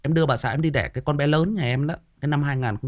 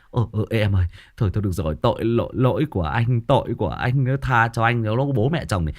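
lower, pleading apology; placating husband; 4 semitones lower than usual. Acted. Husband apologising to wife in labour, placating. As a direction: soothe her, taking all the blame. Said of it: "Lúc đấy thì lại".

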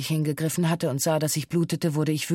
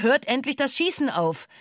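retold shout; 8 semitones higher than usual. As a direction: call out to stop the shooting, high-pitched. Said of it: "schrie mit lauter Stimme".

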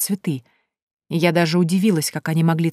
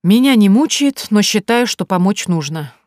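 sighing Erika; 4 semitones higher, 6 dB louder than usual. Acted. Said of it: "снова вздохнула Эрика".

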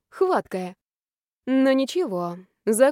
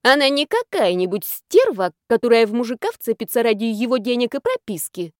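indignant; 2 semitones higher, 4 dB louder than usual. Acted. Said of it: "взвилась баба Нюра".

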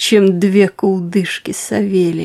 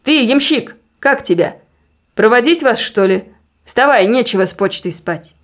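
raised pitch, half-shouted summons; calling out; 3 semitones higher than usual. Acted. Husband ordering the coachman to get up, calling out. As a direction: rouse a sleeper from the next room. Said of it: "крикнул Савелий в сени".

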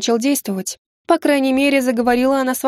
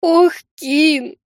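sobbing; 6 semitones higher, 3 dB louder than usual. Acted. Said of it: "снова всхлипнула моя служанка".

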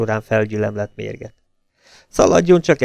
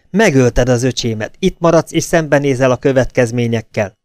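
furious accusation; 2 semitones higher, 4 dB louder than usual. Acted. Enraged sister-in-law accusing.

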